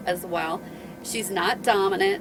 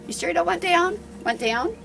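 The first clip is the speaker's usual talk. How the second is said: coaxing; 9 semitones higher than usual. Real, not acted. Coaxing the dog.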